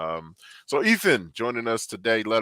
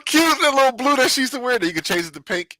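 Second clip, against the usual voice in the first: gushing; 6 dB louder than usual. Real, not acted. Gushing about Chun-Li's outfit.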